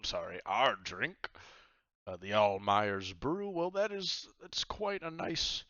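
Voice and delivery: high, loud jovial pirate captain. Acted. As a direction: boom it out like a cheery pirate host. GM voices pirate captain Myers.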